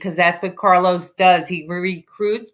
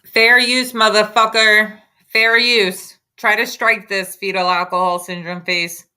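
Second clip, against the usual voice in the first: defiant taunt; 2 semitones higher than usual. Real, not acted. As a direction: dare him to strike it. Taunting the YouTuber over strikes.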